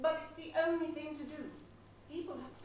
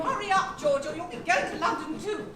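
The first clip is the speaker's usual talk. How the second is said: calling out; 2 semitones higher, 9 dB louder than usual. Acted. Shouting from train as it leaves.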